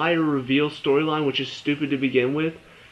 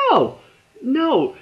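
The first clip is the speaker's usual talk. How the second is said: higher, louder flat refusal; exasperated no; 10 semitones higher, 4 dB louder than usual. Real, not acted. Vlogger rejecting the forgiveness plot, loud. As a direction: shout it down.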